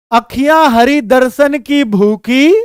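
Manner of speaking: lightly sung-out poem line; poetic recital. Shown as a demonstration. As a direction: recite it like a devotional verse. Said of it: "देखो जरा". (भक्ति भाव से पाठ)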